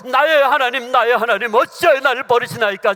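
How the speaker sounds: loud, high, desperate cry to God; anguished cry. Acted. Jesus on the cross crying to God, loud anguish.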